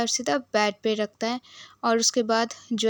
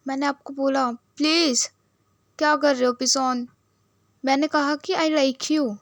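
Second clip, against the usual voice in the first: put-on drunk pleading; 3 semitones higher, 3 dB louder than usual. Drunk Juen begging for reply.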